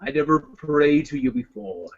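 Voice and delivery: a touch of barbarian king praying to his god; Conan prayer speech. Acted. Warrior praying to his god for revenge, solemn and low. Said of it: "I did that one where".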